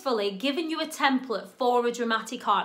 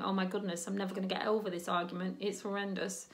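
drama queen despair; 6 semitones lower, 10 dB quieter, faster than usual. Retold or imitated. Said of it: "I'm a drama queen".

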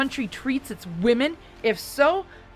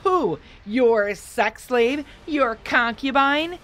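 higher, louder, slowly mocking retort; shouting back; 4 semitones higher, 7 dB louder, much slower than usual. A narrator's reading. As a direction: hurl the words back in scorn. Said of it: "she shouted back".

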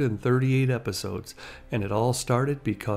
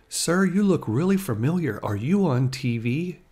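lightly voiced teenage boy, pitched up; curious kid; 4 semitones higher than usual. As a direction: imitate a curious kid asking a celebrity. Retold kid recognizing the actor.

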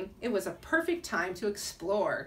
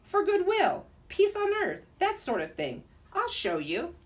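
loud, higher grand Russian Nutcracker; Russian accent; 9 semitones higher, 3 dB louder than usual. Acted. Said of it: "spoke in a Russian accent".

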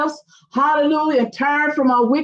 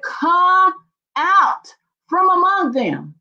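proclaimed; 4 semitones higher, slower than usual. Retold or imitated. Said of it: "he said".

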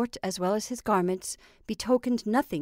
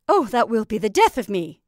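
laughing; 8 dB louder than usual. Acted. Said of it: "convulsed with laughter".

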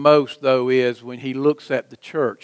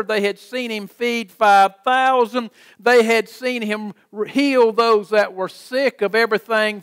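raised, insistent preacher's cadence; preaching; 6 semitones higher than usual. Real, not acted. Preacher listing Jesus's miracles to the congregation, preaching. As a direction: preach it as a driving, mounting list.

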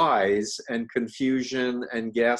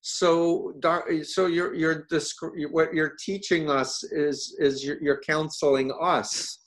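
put-on Russian accent; 4 semitones higher than usual. Russian psychiatrists quoted.

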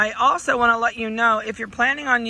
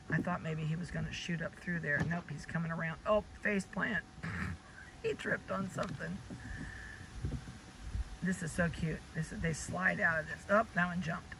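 quiet aside; 2 semitones lower, 14 dB quieter than usual. Real, not acted. Watching puppies, talking softly aside.

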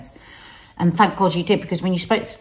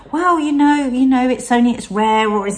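higher, brighter reassurance that fades at the end; reassuring herself; 4 semitones higher, 3 dB louder than usual. Retold or imitated. Wife reassuring anxious husband, higher and lighter. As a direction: talk him round lightly. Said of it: "I'm having to keep going".

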